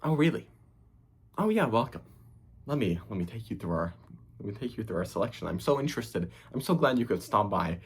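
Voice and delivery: sugary fake customer-service cheer; mock fake enthusiasm. Mocking an overeager shop clerk's fake welcome. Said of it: "You're not trying to do this bullshit where it's like".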